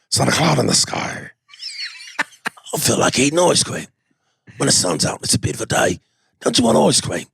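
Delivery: mildly menacing pleasant chat; cheerful words with a light tough-guy edge; Neeson and Statham small talk. Pretend. Two action stars chatting about ice cream, mock menace. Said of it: "imagine them having a pleasant conversation".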